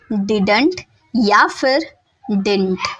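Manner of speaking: "didn't" first as full two syllables did-unt, then clipped to one quick syllable dint; two ways to say didn't. Shown as a demonstration. Teacher shows students two accepted pronunciations, slowly. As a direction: say "didn't" both ways, the full and the squeezed version. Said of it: "दोनों में से कुछ भी pronounce कर सकते हैं".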